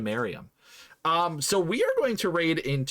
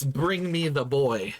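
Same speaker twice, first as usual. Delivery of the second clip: slow, lightly voiced devil; a hint of Satan, drawn out slowly; mock Satan; slower than usual. Joking about a phone call from Satan, slow mock devil. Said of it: "you're getting a phone call from Satan".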